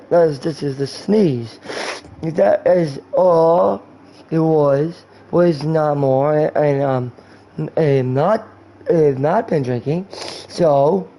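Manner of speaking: slow, drawn-out mock-drunk speech; drunk guy. Drunk guy insisting he hasn't been drinking, slow slur. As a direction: drag the words out with boozy pauses. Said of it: "that's talking to a drunk guy".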